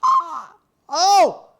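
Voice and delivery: loud, high, elated thanks; whoop, then thank the tippers at high volume; hyped streamer hollering gratitude; excited shout-out. Real, not acted. Streamer thanks viewers for tips.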